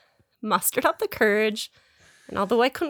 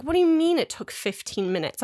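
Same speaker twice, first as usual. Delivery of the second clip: imitating a doubtful questioner, higher pitch; retold incredulous question, voice raised in pitch; skeptical; 4 semitones higher than usual. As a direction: query it in mock disbelief. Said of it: "He sounds skeptical".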